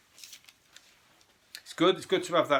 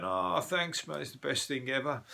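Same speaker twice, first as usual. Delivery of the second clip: higher, gushing mock thanks; doe-eyed girlfriend; 4 semitones higher than usual. Girlfriend thanking him for the mini dog, doe-eyed mock gush. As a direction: coo it like a smitten girlfriend. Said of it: "doe-eyed and going".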